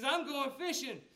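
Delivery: a touch livelier, announcing the plan; eager Peter quote. Acted. Preacher voicing Peter eager to go fishing. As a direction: say it like a man heading back to the boat. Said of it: "And so he says".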